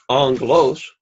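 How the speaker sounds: "angelos" stressed on the first syllable, "an"; antepenult stress. Shown as a demonstration. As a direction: demonstrate "angelos" with the accent up front. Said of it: "the antepenult".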